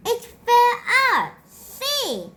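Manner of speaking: Peter insisting. A narrator's reading. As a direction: blurt it out proudly, rushing. Peter proving his lost tooth.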